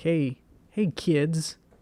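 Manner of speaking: goofy, wacky clown voice, high and drawn out. Recalling a coloring contest announcement for kids, in a wacky clown voice. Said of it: "like one of those wacky clown voices".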